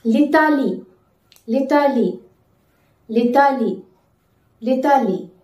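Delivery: L'Italie as lee-ta-lee; careful teacher model word; French pronunciation. Shown as a demonstration. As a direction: model L'Italie clearly, syllable by syllable. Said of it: "How to say Italy in French?".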